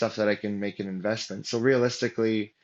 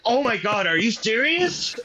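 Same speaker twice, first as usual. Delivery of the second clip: much higher and louder, stunned; stunned disbelief; 11 semitones higher, 4 dB louder than usual. Retold or imitated. Financial advisor googling the buyer's name, loud and stunned. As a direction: blurt it out like the news just hit you. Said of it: "he's like".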